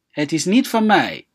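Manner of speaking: normal talking voice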